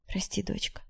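soft whispered apology. A narrator's reading. Mum apologizing to her daughter, whispering. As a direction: whisper it through tears. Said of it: "прошептала мама".

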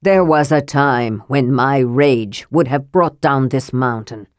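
a touch of a terrible ghost prince; hard and terrible. Acted. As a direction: menace them with old rage. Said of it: "His voice grew hard and terrible".

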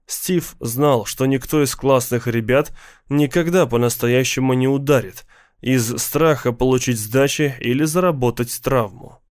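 ordinary delivery

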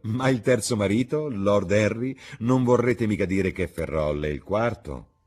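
amused hostess, incredulous. Acted. Hostess questioning the lord about a fourth husband, incredulous.

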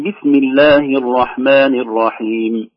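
slow Quranic recitation; measured recitation. Shown as a demonstration. Teacher reciting the basmala as an example, slow recitation. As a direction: recite slowly with long held vowels. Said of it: "فلو قلنا مثلًا".

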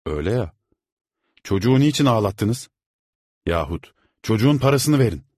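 loud, high indignant demand; imagined protest. A narrator's reading. Father imagining protesting to the servant. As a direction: stand up for the boy.

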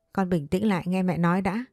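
ordinary delivery, nothing marked

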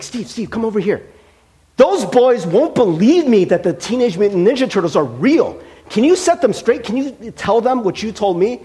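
lightly voiced pleading child; imitating eager kid. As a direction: kid begging Steve to prove him right. Neighbor kid pleading for backup.

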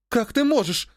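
a hint of tearful hurt; sobbing. A narrator's reading. Sister hurt by her brother's words, lightly tearful. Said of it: "всхлипнула она".

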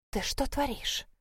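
soft hissed reproach under breath. A narrator's reading. Wife scolds husband under the table, hissing softly. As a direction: hiss it at him quietly. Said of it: "прошипела Малин".

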